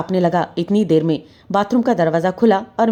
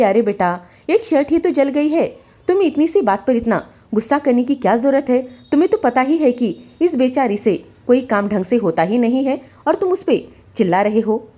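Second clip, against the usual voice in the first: higher, lofty mother-in-law voice; haughty mother-in-law; 5 semitones higher than usual. Acted. Mother-in-law soothing son, mocking wife, haughty. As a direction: talk down about her daughter-in-law. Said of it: "बड़ी शान के साथ".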